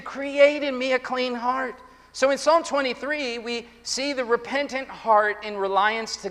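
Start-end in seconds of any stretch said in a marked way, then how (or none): 0.0-1.7 high, slow plea to God; earnest raised cry in prayer. Acted. Sinner facing his sin before God, crying out. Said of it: "he cries out to God".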